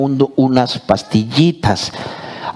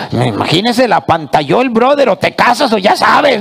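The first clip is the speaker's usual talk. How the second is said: puppet voice; 4 semitones higher than usual. Acted. Puppet teases the big guy.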